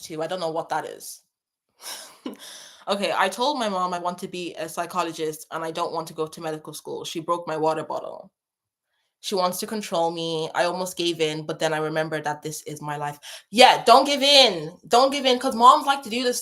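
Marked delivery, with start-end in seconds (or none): 3.1-13.2 lower, even read-out of a message; reading aloud. Acted. Reading out a viewer's message about mom and medical school, low and level.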